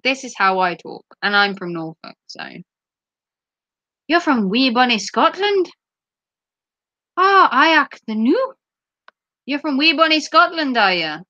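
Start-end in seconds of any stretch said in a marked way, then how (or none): 4.1-11.2 shaky-grasp mock Scottish lilt; attempted Scottish accent. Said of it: "I can't really do a Scottish accent".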